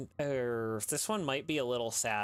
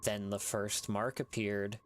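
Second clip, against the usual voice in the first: story narration. A narrator's reading. Narrator reading a creepy tale to listeners, measured storytelling. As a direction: draw listeners into a sad ghost story.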